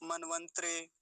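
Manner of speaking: मनवंतरे ending in a joined "tre"; मनवंतरे with no vowel after त; wrong half त. Shown as a demonstration. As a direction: squash the last तरे of मनवंतरे into one syllable. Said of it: "ऐसा भी बोल जाते हैं कई बार लोग".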